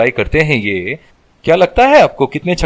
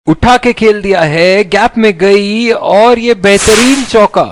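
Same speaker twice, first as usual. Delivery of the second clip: excited cricket commentary; 5 semitones higher, slower than usual. Acted. Same boundary call repeated.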